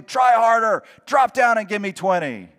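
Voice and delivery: loud, high and fast commands; barking orders. Retold or imitated. Temptation barking orders at the Christian, loud and fast. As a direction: bark it like a harsh drill sergeant. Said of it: "It'll bark orders at you".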